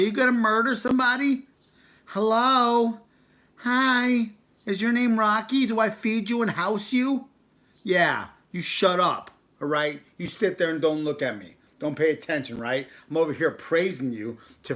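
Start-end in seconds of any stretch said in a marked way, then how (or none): 0.0-10.6 high, loud teasing pet talk; talking to the dog. Real, not acted. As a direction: scold the dog in a sing-song high voice.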